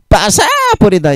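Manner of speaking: stretched, high-pitched Gyeongsang dialect. Shown as a demonstration. Preacher quoting how Gyeongsang people say smash it, emphatic dialect. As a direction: draw out 바사 high and slow, Gyeongsang style. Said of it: "이렇게 말을 하거든요".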